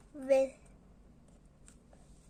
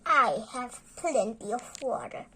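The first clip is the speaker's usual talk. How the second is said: whooshed; 2 semitones lower, 6 dB louder, faster than usual. A narrator's reading.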